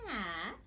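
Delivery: short-a "ah" held on its own; isolated sound. Shown as a demonstration. Teacher gives nap's next sound, "ah" held. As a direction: draw out the vowel "ah" from nap. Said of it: "The next sound is".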